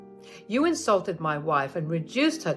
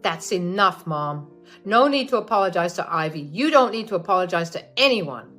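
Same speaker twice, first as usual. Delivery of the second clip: louder, fast stern cut-off; firm angry son; 7 dB louder than usual. Acted. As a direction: shut her down firmly. Son cuts off mother firmly.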